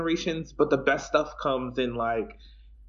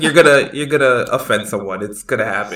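louder scolding through laughter; laughing scold; 11 dB louder than usual. Retold or imitated. Friend imitating Caitlin's warning, laughing and loud. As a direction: warn them while cracking up. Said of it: "It's like".

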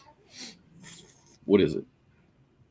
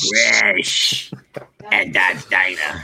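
imitating Dot; 2 semitones higher, slower than usual. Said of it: "That's how she talks".

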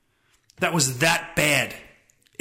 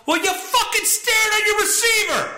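much higher angry shout; yelling at the TV. Retold or imitated. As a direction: fan screaming at a player. Yelling at quarterback on TV.

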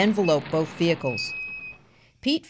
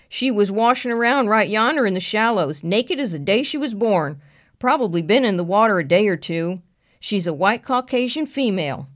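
country deputy voice; 4 semitones higher, 4 dB louder than usual. Acted. Deputy Frank answers.

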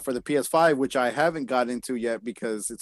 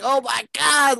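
much higher "Oh my God"; mock amazement; 12 semitones higher, 3 dB louder, slower than usual. Retelling his reaction to a cartoon, much higher. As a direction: gasp it out amazed. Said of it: "I was just like".

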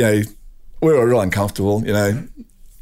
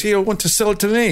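retold protest, much higher pitch; pissed off; 10 semitones higher than usual. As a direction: imitate a rival buyer's indignant objection. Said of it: "he got pissed off".

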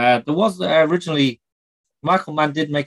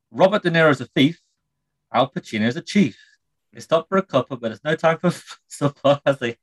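breaking into laughter. Shown as a demonstration. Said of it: "Try again".

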